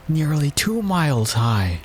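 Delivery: high, drawn-out queenly voice. A narrator's reading. Queen adds to the king's charge, high drawn-out voice. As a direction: stretch it out up high. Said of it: "added the queen".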